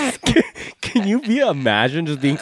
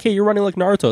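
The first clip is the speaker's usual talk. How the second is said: high, mocking kid voice; imitating a kid picking a fight; mock taunt; 10 semitones higher, faster than usual. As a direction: tease him in a high squeaky voice. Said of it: "It's like".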